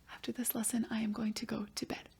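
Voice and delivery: put-on soft whispered child's reply; whispered student answer. Pretend pupil answering the teacher, whispered.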